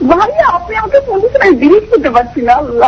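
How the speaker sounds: rushing out in disbelief, high and quick; thrilled fan can't believe the call; breathless excitement at first, then settling; excited gush. Real, not acted. Fan thrilled to get host's call.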